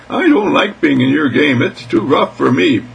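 a hint of a small creature protesting; lightly voiced mouse. Mouse complains to the cat, mildly plaintive.

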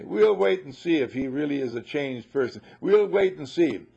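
skeptical family. Retold or imitated. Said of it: "they're gonna say".

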